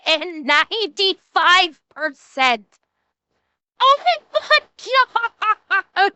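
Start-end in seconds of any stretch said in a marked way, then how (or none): 3.8-6.1 slow, high, drawn-out disbelief; stunned oh my God. Real, not acted. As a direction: gasp it out in shock. Shocked at follower drop.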